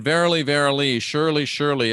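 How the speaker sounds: "verily, verily" and "surely, surely" stressed in pairs; emphatic doubled "verily" and "surely"; double emphatic. Acted. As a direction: lean on each "verily" and "surely". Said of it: "it's a double emphatic".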